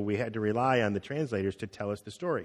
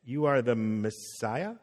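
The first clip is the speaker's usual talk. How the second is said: slow, softer, rising on "Messiah?"; unsure question; 2 semitones lower, 4 dB quieter, slower than usual. Retold or imitated. Peter answering Jesus uncertainly, slow and rising. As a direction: ask it as if not quite sure. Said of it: "Peter answered him like this".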